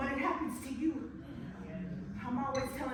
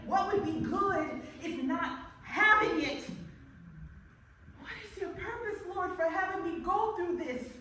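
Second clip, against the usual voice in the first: rising anguish; 5 semitones higher, 5 dB louder than usual. Acted. Anguished questioning of God.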